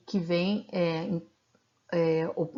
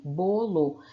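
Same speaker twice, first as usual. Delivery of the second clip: BOLO split slowly into bo and lo; syllable by syllable. Shown as a demonstration. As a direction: say "bolo" in two separated syllables. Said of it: "as sílabas são bo e lo". ("bolo" separado em sílabas, devagar)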